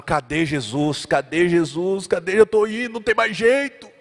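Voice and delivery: lightly voiced dying man asking where Jesus is; imagined dying Lazarus. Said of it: "Eu imagino Lázaro". (Lázaro moribundo, levemente imitado)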